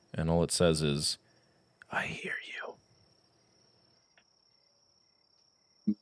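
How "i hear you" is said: soft, disembodied whisper. Narrator voices what a character hears in their head getting into bed, whisper. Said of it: "you hear a whisper in your head".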